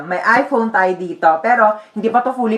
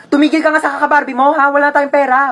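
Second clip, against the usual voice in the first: sharp, raised scolding from a broke mother; 3 semitones higher than usual. Acted. Mother scolds child begging for a Barbie, sharp and raised. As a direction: snap at the child to stop.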